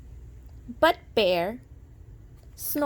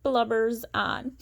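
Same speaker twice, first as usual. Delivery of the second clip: lilting storybook read-aloud; sing-song rhyming narration; reading to children; 2 semitones higher than usual. A narrator's reading. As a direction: read it like a bedtime picture book. Reading picture book aloud.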